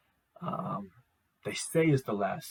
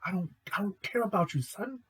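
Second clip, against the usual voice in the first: quick, higher cocky brush-off; dismissive Isaac; 9 semitones higher than usual. Retold or imitated. Isaac brushing off the guy, quick and cocky. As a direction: toss it off fast. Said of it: "Isaac just like".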